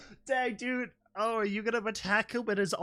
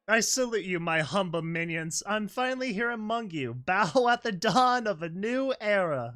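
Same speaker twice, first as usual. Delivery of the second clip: booming possessed voice; 3 semitones higher, 4 dB louder than usual. Acted. Possessed foal announcing herself to her friends, booming and grand. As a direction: boom it out like a voice from a cave. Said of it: "it was a different voice, like the sound made by a chorus of ponies calling from the bottom of a cave".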